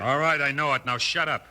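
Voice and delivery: angry snap. Acted. Henchman snaps back at boss.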